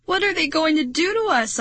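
high-pitched frightened question; crying out. A narrator's reading. Narrator over the deafening whistle, crying out. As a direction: pitch held high in alarm. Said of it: "I cried".

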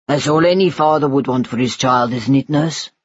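tender father. Acted. Father promising his baby son a future, tender.

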